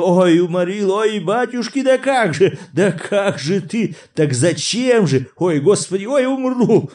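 громко и высоко, задыхаясь от смеха; выдавливай слова сквозь хохот; хохоча через силу. A narrator's reading. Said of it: "продолжая хохотать, выговаривал через силу". (через силу, хохоча)

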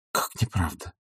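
quiet wounded echo; hushed disbelief. A narrator's reading. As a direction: ask it again under her breath, stunned. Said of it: "повторила она ещё".

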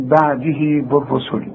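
بعده recited with a two-beat vowel on the pronoun; recitation. Shown as a demonstration. Teacher reciting the verse for his class. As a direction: stretch the final هـ of بعده two counts. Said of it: "ها الضمير اللي خدناها دلوقتي".

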